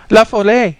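put-on very high, loud little-girl shriek; child's piercing scream. Little girl warning La Folle, piercing high scream. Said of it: "she screamed in her piercing treble".

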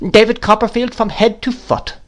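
high-pitched exclamation; crying out. A narrator's reading. Miss Betsy scorning the absent husband, crying out. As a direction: cry it out, pitched well up. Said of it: "cried Miss Betsy".

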